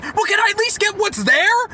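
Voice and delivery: high-pitched mocking whine of a demanding customer; freaking-out customer. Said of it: "she continues freaking out".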